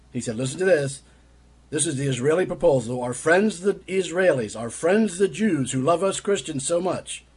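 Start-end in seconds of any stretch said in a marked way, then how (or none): 3.0-7.2 slow, higher-pitched sarcasm; very sarcastic. Retold or imitated. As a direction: draw out the praise with mocking sarcasm. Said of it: "he was being very sarcastic".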